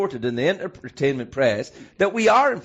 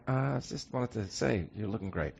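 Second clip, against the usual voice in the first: soft, creepy whispered compliment; Adam West villain whispering; Whisperer villain; 3 semitones lower, 11 dB quieter than usual. Pretend. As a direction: purr it like a campy villain.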